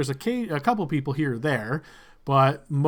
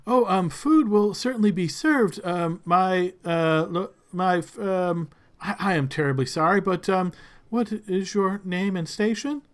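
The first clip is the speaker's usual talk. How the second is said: flustered servant; 3 semitones higher than usual. Acted. Servant stumbles asking Lord Blixel his name, flustered. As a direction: trip over the title nervously.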